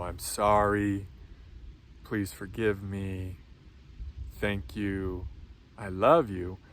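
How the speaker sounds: slow tender mantra recital; gentle mantra. Shown as a demonstration. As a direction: offer each phrase gently, slowly. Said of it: "where we're saying".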